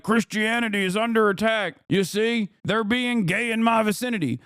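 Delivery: mock the aggrieved white Christian guy, pitch up a little. Streamer parodies a white Christian guy claiming persecution, mildly mocking. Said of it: "a white Christian guy being like".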